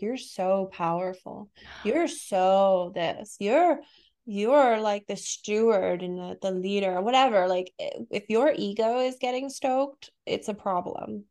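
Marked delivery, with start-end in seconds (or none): 0.0-7.0 slow, lightly voiced flattering channeled being; mock flattering spirit. Spirit being flattering a channeler's ego, slow mock praise. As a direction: coo the praise slowly, half-mocking. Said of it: "a being coming to you being like".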